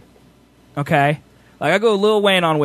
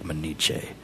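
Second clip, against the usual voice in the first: mock Asian accent; 10 semitones lower than usual. Shown as a demonstration. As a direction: let a bad accent slip into an exaggerated Asian samurai voice. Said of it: "mine turn into Asian".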